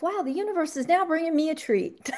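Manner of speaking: amused inner thought, laughing through it; a delighted private chuckle; giggling thought about a treat; laughing to herself. Retold or imitated. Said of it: "I thought to myself".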